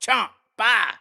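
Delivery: short punched sound effect; real chomp. Shown as a demonstration. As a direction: call out the hit on video. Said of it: "Here's a real chomp".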